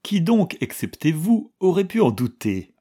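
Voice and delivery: bright, high cheerful question. A narrator's reading. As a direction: tease them gaily. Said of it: "demanda gaiement la princesse".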